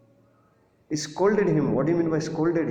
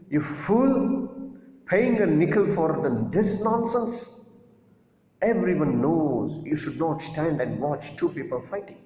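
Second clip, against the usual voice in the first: angry shout; 4 semitones higher than usual. Retold or imitated. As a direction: yell at the foolish son in fury. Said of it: "And what he shouted at him?".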